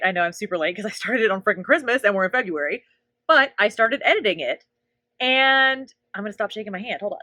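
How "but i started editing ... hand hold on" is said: talking while holding a push-up; strained words during push-ups; doing push ups. Real, not acted. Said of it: "while I'm doing these push-ups right now".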